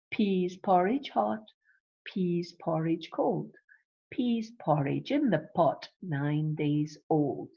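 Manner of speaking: measured rhyme, line by line; nursery rhyme recital. Shown as a demonstration. Teacher replays the rhyme for its P sound, measured recital. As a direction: recite with pauses, drawing out the last line. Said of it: "there's your alliteration with that P sound".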